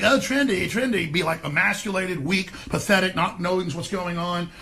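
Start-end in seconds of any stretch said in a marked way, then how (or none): 0.0-1.1 mock trendy. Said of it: "kinda be like".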